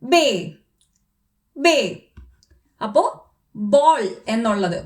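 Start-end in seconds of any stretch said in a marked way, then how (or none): 0.0-2.1 ബേ said as a long clear bay; German letter name. Shown as a demonstration. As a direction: say ബേ like a teacher modelling. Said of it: "ബി എന്നുള്ള ജർമ്മനിൽ എങ്ങനെയാണ്". (ജർമ്മനിൽ ബേ എന്ന് ഉച്ചരിച്ച്)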